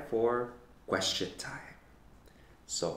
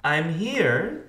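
higher, louder, sing-song sweetness; sweetly; 7 semitones higher, 6 dB louder than usual. A narrator's reading. D W answering Francine, sweetly. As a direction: pipe up sweetly as the little sister. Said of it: "D W said sweetly".

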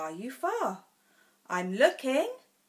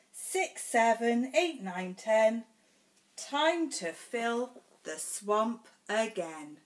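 bold stomp. Acted. Reads picture book to child.

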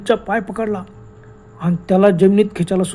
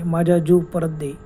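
slow ghostly voice; 2 semitones lower, slower than usual. Acted. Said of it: "मानवी आवाज".

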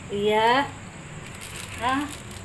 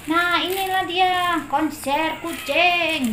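mock announcer; 5 semitones higher, much slower than usual. Presents the cats' concert.

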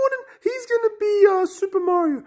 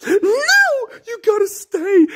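pleading protest; 2 semitones higher, slower than usual. Acted. Child begging an actor not to quit, pleading protest. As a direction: plead with him to stay.

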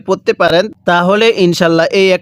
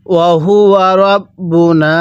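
slow, drawn-out tajweed chant; Quran recitation; much slower than usual. Shown as a demonstration. Teacher recites the verse for students, slow tajweed chant. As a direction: intone each syllable slowly like a reciter. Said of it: "কিভাবে পড়ব?".

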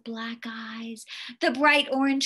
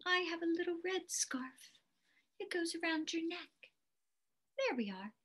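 whispering; 3 semitones higher, 12 dB quieter, much faster than usual. Real, not acted. Aside to listener.

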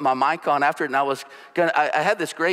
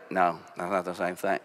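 emphatic wife; 8 semitones lower, 6 dB quieter than usual. Acted. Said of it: "The wife emphatically".

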